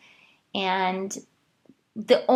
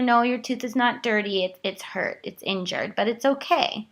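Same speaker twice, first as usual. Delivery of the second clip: gentle reassurance. Retold or imitated. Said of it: "so I just told her".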